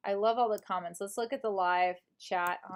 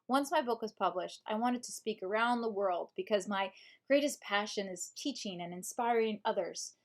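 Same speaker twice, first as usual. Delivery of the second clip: measured audiobook narration; audiobook reading. Shown as a demonstration. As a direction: read the self-help book aloud as a narrator. Reads book in audiobook voice.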